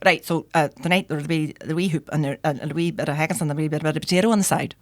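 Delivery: lightly attempted Paisley accent, mumbled; half-hearted Glasgow accent. Paisley chef reading out specials before service, half-hearted Glasgow accent. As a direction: run through specials in rough Glaswegian. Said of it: "not gonna do a good accent".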